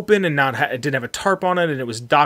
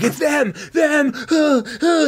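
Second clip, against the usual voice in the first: mock yell; 13 semitones higher, slower than usual. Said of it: "she's, like, yelling".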